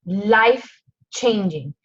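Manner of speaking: drawn out, moved, slow; savoring the phrase slowly; slow emotional echo. Real, not acted. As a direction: let the word sink in, slow and touched. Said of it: "I'm getting emotional".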